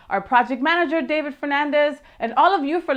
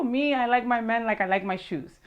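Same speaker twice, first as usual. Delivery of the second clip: bad impression. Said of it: "I do really bad impersonations".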